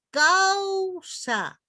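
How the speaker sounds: "Causa" agudo y alargado, con la U resaltada; ejemplo marcado. Shown as a demonstration. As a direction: di "Causa" alto, estirando la U. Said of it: "Fíjense". ("Causa" agudo y lento)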